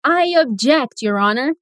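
mock prosecutor. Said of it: "aí o promotor grita".

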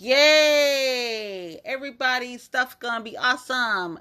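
a hammed-up cheerful yay; mock cheer. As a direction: mimic the hopeful cheer sarcastically. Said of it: "this week was supposed to be like".

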